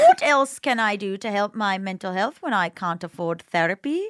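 bad British accent. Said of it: "with a terrible accent, very bad accent".

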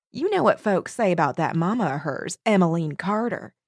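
lightly voiced Southern gossip; Southern accent. Cousin gossiping about the mother, Southern accent. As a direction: confide it like a Southern busybody. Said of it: "That was an excellent accent".

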